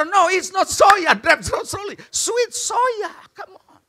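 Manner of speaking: high, slowed-down mock exclamation; exasperated correction. Storyteller corrects friend's soya blunder, high-pitched exasperation.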